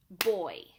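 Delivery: put-on "boy" said loud and punched as one clapped beat; clapped-out word. Shown as a demonstration. Teacher showing parents how to clap out "boy", loud. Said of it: "boy clapped out would sound like this".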